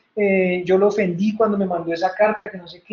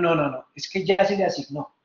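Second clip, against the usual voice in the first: lower, softer voice of the heavenly court; 5 semitones lower, 4 dB quieter than usual. Retold or imitated. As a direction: answer firmly from above, low and quiet. Heavenly court answers the rebbe.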